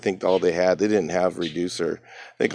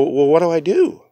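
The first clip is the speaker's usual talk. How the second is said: whispered, a little higher; whispered question; 7 semitones higher, 3 dB louder than usual. Retold or imitated. Asking the body man for help, whispered. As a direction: whisper it, unsure what to do.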